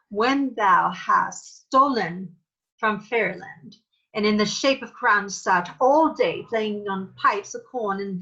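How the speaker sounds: formal Shakespearean Titania. Shown as a demonstration. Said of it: "So that's a more formal way".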